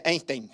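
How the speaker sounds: EINSTEIN said as spelt, with an "ay" as in "day" at the start; old mispronunciation. Shown as a demonstration. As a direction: say Einstein the mistaken way, "EYN-stayn". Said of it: "Antes decía". (Einstein mal pronunciado, con "ein" como se escribe)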